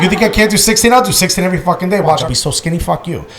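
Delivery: cocky mock-defiant retort, fast in the middle; defiant comeback. Patient boasting to his doctor, mock defiant. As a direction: fire it back like a challenge. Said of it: "I was like".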